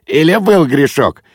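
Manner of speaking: high, playful insinuation; mirthful teasing. A narrator's reading. Guest needling the host about paternity, merrily teasing. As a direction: tease with mock surprise.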